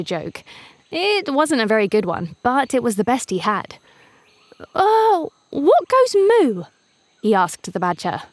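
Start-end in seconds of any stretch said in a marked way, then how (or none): 4.7-6.6 much higher, chirpy bird voice; bright little bird calling out; eager cuckoo voice. A narrator's reading. Cuckoo tells joke.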